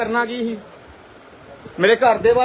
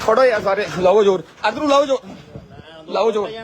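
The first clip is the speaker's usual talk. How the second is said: real shouting; 5 semitones lower than usual. Real, not acted. Man in a scuffle calling on friends to push, shouting. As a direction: yell for everyone to grab hold and push.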